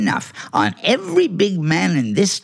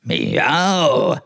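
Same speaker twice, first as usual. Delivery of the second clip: lightly voiced complaining meow; hungry meow. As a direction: meow for food. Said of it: "I'm hungry".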